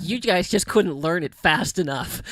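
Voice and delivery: slow, pointed, deadpan comeback; sassy daughter. Retold or imitated. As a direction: spell out the blame slowly to the cast. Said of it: "She's like".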